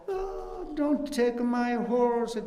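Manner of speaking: mock child pleading, high and slow; imitating a child. Teacher voicing a Tibetan child begging to keep his horse, high and slow. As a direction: plead like a small child whose toy horse is taken. Child's plea, voiced in a story.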